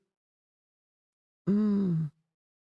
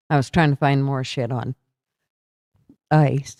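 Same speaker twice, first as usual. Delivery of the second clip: yawning; 3 semitones lower than usual. Real, not acted. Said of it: "I don't know why I'm yawning".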